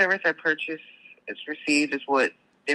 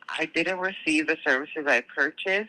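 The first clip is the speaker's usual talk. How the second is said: slow, clear repeat for a sleepy caller; slower repeat. Shown as a demonstration. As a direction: say it again slowly and clearly. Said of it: "Say that again".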